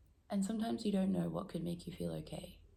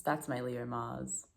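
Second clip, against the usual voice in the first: slow emphatic repeat; 5 semitones lower, much slower than usual. Shown as a demonstration.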